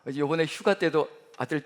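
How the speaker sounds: ordinary delivery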